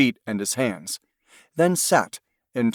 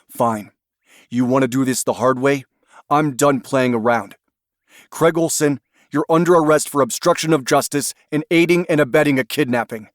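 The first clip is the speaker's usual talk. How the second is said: loud, fast, stern arrest; 3 semitones higher, 3 dB louder than usual. Acted. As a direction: lay down the law. Agent loses patience, arrests him.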